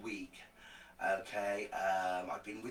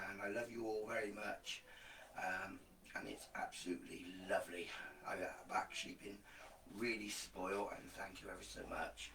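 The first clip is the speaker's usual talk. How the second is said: hoarse, rough voice after illness; groggy and worn out, voice still recovering; 7 dB quieter than usual. Real, not acted. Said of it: "I've got a bit of a groggy voice, as you can tell".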